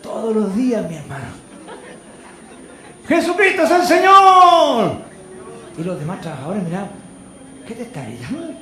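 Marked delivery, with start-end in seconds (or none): 3.1-5.0 loud, high, slow proclamation; shouted declaration. Retold or imitated. Same shout repeated. 7.7-8.5 softer puzzled coworker question; quiet aside. Retold or imitated.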